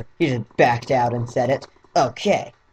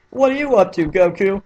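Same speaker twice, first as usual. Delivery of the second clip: much higher, cartoony Krillin parody voice; Team Four Star voice; 4 semitones higher than usual. Shown as a demonstration. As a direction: pitch it up into an abridged-parody Krillin. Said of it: "Let's do the Team Four Star voice".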